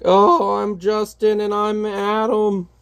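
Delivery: a hammed-up cheerful comic hero; character voices. Shown as a demonstration. Reading the heroes' lines to his child in a high voice. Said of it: "doing the individual voices".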